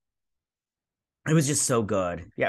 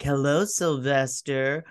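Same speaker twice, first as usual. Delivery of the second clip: lightly voiced slow sinister villain; a hint of a gloating captor, drawn out; villain greeting; slower than usual. Villains greeting their captive Sylvester, slow mock menace.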